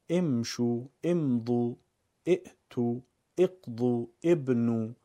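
"imshu, imdu, i'tu, iqdu, ibnu"; careful list, each word from an i; read with kasra. Shown as a demonstration. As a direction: begin امشو، امضو، ائتو، اقضو، ابنو on i.

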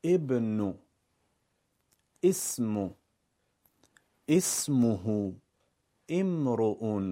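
"ibnu, ismu, ismuhu, imru'un", each begun on i; careful word-by-word reading from an i; read with kasra. Shown as a demonstration. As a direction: say ابن، اسم، اسمه، امرؤ with an i onset.

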